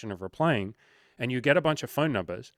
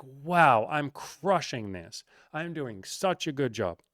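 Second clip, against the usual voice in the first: mock-impressed with himself, slow on the boast; self-congratulating; 2 semitones higher, slower than usual. Guy flirting thinks it's going great, mock self-congratulation. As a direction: play the guy who thinks he's winning. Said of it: "and you're like".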